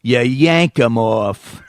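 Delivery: drawn-out New York punchline; New York accent. Acted. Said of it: "me doing a New York accent".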